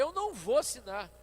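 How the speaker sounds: a repeated no with rising temper; firmer refusal. Retold or imitated. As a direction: push back harder the second time. Repeated refusal, getting heated.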